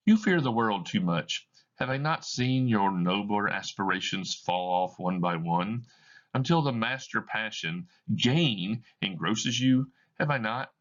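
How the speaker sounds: a hurt fiancée accusing; lightly voiced woman, bitter; reproachful woman.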